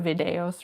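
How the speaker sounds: "Videos" said the Spanish way; guessed Spanish pronunciation. Shown as a demonstration. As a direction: pronounce "Videos" as a Spanish word. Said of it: "I assume it's".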